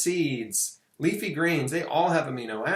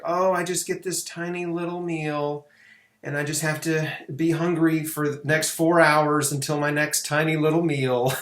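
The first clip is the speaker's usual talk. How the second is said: mock dieter. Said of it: "sort of Jenny Craig approach".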